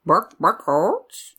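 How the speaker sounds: slow clucking chicken voice; chicken sound. Pretend. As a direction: squawk it like a chicken. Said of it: "That was very good".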